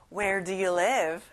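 slow, even read-along; slow choral model. Shown as a demonstration. Teacher leads the class slowly in unison. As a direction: say it slowly together. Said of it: "같이 말해봐요".

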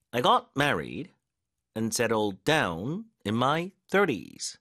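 slow, deliberate beats on "married", "down", "thirties"; stress drill. Shown as a demonstration. Teacher drilling learners on where the force goes, stressed key words. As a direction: punch "got married", "settled down" and "thirties". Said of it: "강세 넣는 연습해볼게요".

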